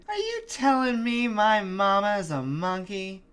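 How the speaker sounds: loud, high-pitched indignant outburst; mock-outraged yell, pitched high; screaming literalist. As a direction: holler it like an outraged believer. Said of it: "heard screaming".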